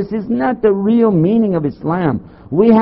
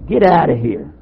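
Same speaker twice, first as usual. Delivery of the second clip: usual speaking voice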